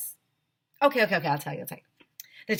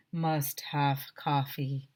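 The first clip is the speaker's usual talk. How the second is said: zombie moan; 4 semitones lower, much slower than usual. Acted. Zombie teacher moaning.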